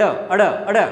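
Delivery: अड़ with a short "a" and a tongue flap; flapped अड़. Shown as a demonstration. Teacher isolates the sound, repeated flapped अड़. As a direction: flick out अड़, अड़ as two separate sounds. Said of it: "इसका उच्चारण कैसे करना है".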